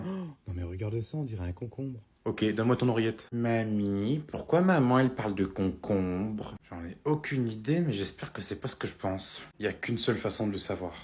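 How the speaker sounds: soft hushed whisper. Acted. Grandma and kids whisper outside the bedroom door. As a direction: keep it down, the parents are right there.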